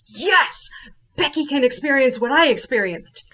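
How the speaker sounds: high, eager burst of approval; excited cheer. Retold or imitated. Reacting to the friend's Key West plan, excited. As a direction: cheer her on with a stretched, lifted yes.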